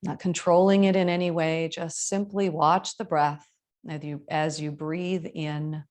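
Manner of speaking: measured yoga teacher voice, long pauses; spacious, evenly paced breathing guidance; guided meditation. Acted. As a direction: guide them into the breath, unhurried.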